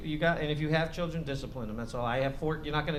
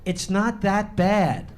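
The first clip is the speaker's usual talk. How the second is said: quoting son; 3 semitones higher, 5 dB louder, much slower than usual. Retold or imitated. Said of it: "And I quote him now".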